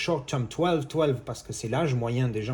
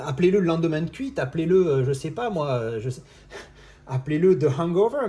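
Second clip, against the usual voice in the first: exasperated outburst; 3 semitones higher, 5 dB louder than usual. Real, not acted. Venting at the translators.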